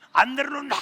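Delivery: high, loud protest; mother protesting as her son carries her, shouting; mock yell. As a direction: shout it out while being carried. Mother protesting on son's back.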